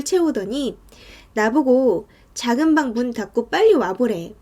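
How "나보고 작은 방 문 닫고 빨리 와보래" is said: ordinary delivery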